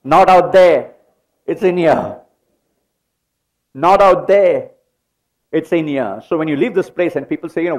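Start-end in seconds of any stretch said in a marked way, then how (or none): 0.0-6.2 leading the congregation, loud on "Not out there"; rallying the congregation to shout back "Not out there"; call and response. Real, not acted. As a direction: chant it with the crowd, louder on the first half. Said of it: "Come on, say it with me".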